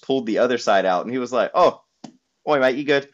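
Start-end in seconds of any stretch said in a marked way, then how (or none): 1.5-3.1 higher, louder mock Manchester check-in; mock Manc fan. Fan asking the American if he's okay, mock Manchester accent. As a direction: imitate the fan asking if he's all right.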